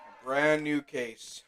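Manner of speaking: slowed right down for emphasis; brand new case said slowly; slow, drawn-out repeat. Shown as a demonstration.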